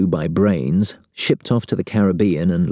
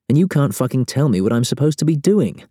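frustrated; 8 semitones higher than usual. A narrator's reading. Bob venting frustration.

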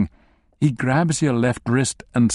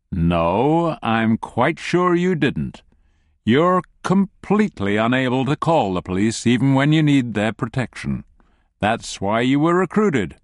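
calm captor. Acted. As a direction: explain it like to a child. Christie calmly corrects captive.

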